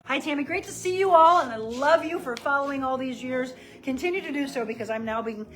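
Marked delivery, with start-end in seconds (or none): 3.8-5.5 slightly winded from the workout; out of breath. Real, not acted. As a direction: speak a little short of breath. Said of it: "I'm getting a little out of breath".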